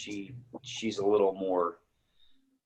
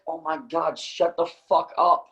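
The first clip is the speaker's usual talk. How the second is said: slow, fed-up grumble; grumpy retort; 5 semitones higher, slower than usual. Retold or imitated. Husband retells snapping back at his wife, slow and fed-up. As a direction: drag it out like a cranky riser. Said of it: "And I'm like".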